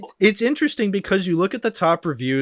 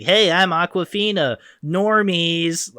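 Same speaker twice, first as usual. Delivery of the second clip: high mock impression of a voice actress; Awkwafina stand-in; 4 semitones higher, slower than usual. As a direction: send up a sound-alike, pitched up. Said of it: "some Asian Canadian lady just being like".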